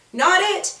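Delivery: high, bright group yell; mock scream. A narrator's reading. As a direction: call it out fast with the others. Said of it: "scream at the same time".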